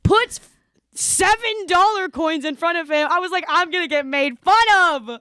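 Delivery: posh British voice; British accent. Retold or imitated. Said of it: "I don't know why I was British there".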